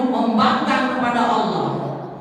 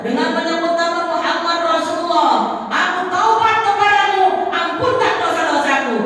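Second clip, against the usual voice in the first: raised, fervent repentance; fervent plea; 5 semitones higher than usual. Acted. Adam begging Allah for forgiveness, raised and fervent. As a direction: cry out the plea with longing.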